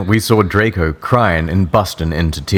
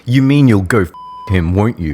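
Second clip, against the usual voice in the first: angry shout; 3 semitones higher, faster than usual. Acted. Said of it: "I shouted angrily".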